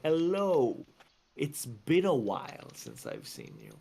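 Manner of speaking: carefully enunciated, like someone in the spotlight; careful political greeting. Shown as a demonstration. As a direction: greet them like a politician on stage, every word crisp. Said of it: "his words are enunciated very clearly".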